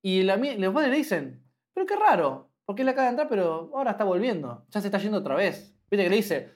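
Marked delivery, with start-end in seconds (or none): 1.7-5.8 lightly voiced puzzled parents; surprised parent.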